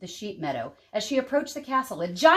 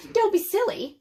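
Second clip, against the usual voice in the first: roaring giantess; 12 semitones higher than usual. A narrator's reading. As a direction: wail like a huge desperate woman. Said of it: "said the giantess".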